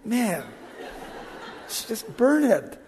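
soft, laughing, slowed quote of a wife; a hint of the wife, half laughing; preacher quoting his wife with a quiet laugh; mock wife quote. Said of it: "They can say".

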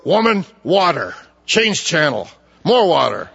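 lightly mocked curt, bossy order; rude demand. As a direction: bark it like a rude boss, half joking. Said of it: "he didn't look at her and go".

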